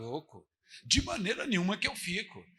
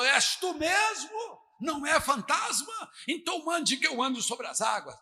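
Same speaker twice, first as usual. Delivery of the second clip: calling out; 5 semitones higher than usual. Retold or imitated. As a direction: shout the doubt across the sea. Peter calls to Jesus.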